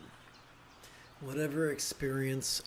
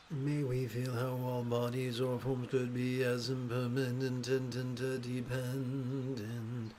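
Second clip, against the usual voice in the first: hoarse voice. Real, not acted. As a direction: voice fading from dust in throat. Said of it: "my voice is really going away".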